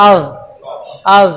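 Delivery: "আল" ending in a soft Arabic dh, like English "the"; soft dhal. Shown as a demonstration. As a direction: end "আল" on a gentle dhal, tongue tip at the teeth. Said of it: "নরম হবে". ("আল"-এর শেষে নরম যাল)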